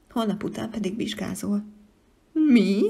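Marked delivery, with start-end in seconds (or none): 2.3-2.8 startled what. Acted. Child startled by exam news.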